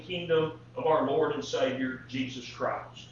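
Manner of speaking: measured, solemn reading of the passage; solemn Bible reading aloud; scripture reading. Acted.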